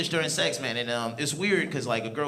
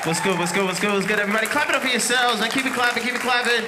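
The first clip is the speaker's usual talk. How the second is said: loud, raised-pitch crowd greeting; calling out to crowd; 7 semitones higher, 8 dB louder, faster than usual. Real, not acted. Comic taking the stage and calling for applause, hyped. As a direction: work up the applause, loud and high.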